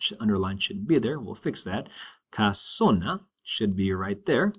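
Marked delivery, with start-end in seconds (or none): 2.3-3.2 casona stressed on SO; second-to-last syllable stressed. Shown as a demonstration. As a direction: lean slowly on the middle syllable of casona. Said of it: "on the second to last syllable".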